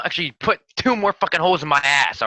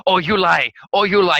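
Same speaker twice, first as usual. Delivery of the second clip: mock Two Gun; 2 semitones higher, 6 dB louder than usual. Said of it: "Two Gun never say".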